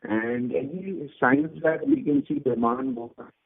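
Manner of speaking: glitchy, cutting-out phone line; robotic dropouts on a bad call; breaking audio. Real, not acted. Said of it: "your audio is breaking".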